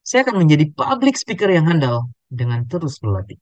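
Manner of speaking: proud lift on "public speaker"; varied intonation. Shown as a demonstration. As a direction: make "public speaker" stand out, then settle on "terus berlatih". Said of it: "bagaimana intonasinya yang berbeda".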